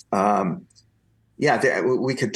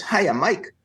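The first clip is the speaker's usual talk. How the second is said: exuberant Stan Lee; 8 semitones higher than usual. Retold or imitated. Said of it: "this exuberant male voice".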